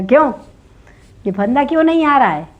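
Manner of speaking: high, loud baffled question; puzzled king. Acted. King asking why the noose won't fit, high and baffled. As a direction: demand to know why, puzzled.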